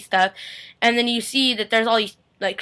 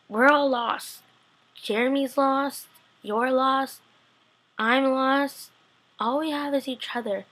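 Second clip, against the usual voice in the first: slightly higher, mournful retelling; really sad; 3 semitones higher, slower than usual. Retold or imitated. Retelling Rick and Elena's talk of loss, sad and drawn-out. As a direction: let each short phrase hang sadly. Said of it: "it was really sad".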